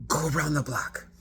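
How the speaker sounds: high, loud bubbly order; excited passenger pointing the way; animated instruction. Retold or imitated. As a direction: chirp the directions at the driver. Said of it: "She's very animated".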